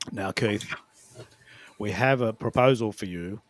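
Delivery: low, measured imitation of a Scottish film star; attempted famous-actor voice reading an email; Sean Connery. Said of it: "if Sean Connery read out my emails".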